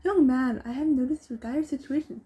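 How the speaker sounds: high, loud officious voice; pompous mayor. A narrator's reading. Mayor addresses the stuck boy, pompous. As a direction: orate like a self-important mayor. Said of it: "That's the mayor".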